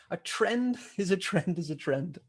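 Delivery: chuckling through the words; laughing at how simple it is. Real, not acted. Teacher laughing at his own point to the class. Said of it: "I'm kind of laughing here".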